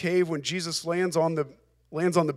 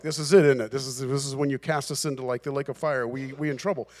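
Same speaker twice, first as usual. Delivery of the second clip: lightly voiced worry, pitched down and sinking away; mock-worried demons; 5 semitones lower, faster than usual. Demons seeing Jesus and fearing the lake of fire, mock-worried.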